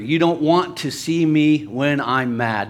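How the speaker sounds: slow, deliberate mock warning. Preacher quotes an angry person's warning, slowed down. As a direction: take the quote slowly. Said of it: "I gotta slow down here".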